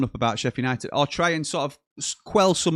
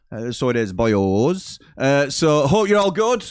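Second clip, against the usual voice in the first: put-on Welsh accent; 3 semitones higher, slower than usual. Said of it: "doing a terrible Welsh accent".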